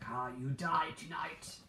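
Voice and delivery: slow, mild menacing cookie voice; lightly voiced threat, slow; evil gingerbread man. Vlogger voicing gingerbread man threatening, slow mock menace. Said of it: "And he's like".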